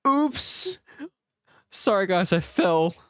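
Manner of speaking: high squeaky oops of a fall; jokey high-pitched fall; mock oops. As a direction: play the clumsy faller. Mock falling into the river.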